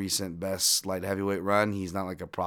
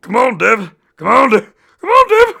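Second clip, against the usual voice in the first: loud, much higher chant; cheering shout; 17 dB louder than usual. Acted. Fan cheering for Devin, loud high chanting. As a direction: cheer him on from the crowd.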